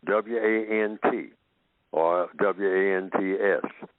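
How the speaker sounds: W A N T spelled slowly; spelling out. Shown as a demonstration. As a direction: spell out W A N T, letter by letter.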